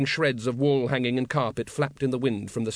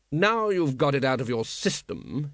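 unruffled ruler. Acted. Patrician addresses frantic Wonse.

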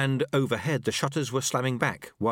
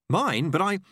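higher-pitched, startled protest; startled apprentice; 6 semitones higher, 4 dB louder than usual. Acted. Apprentice handed the board, startled. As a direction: cut off mid-protest.

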